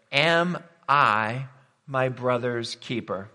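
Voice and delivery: drawn out word by word with deliberate gaps; slow, weighty quotation. Acted. Preacher quotes Cain's question to the congregation, slow and weighty. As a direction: pose the question very slowly, weighing each word.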